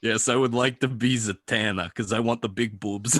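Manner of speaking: lightly voiced sleazy Italian; a touch of hammy Italian sleaze; Mark Ruffalo impression. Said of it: "why is Mark Ruffalo a sleazy Italian".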